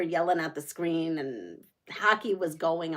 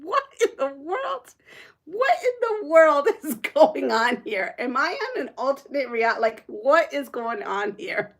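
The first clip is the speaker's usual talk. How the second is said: bewildered disbelief; 5 semitones higher than usual. Retold or imitated. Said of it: "I'm like".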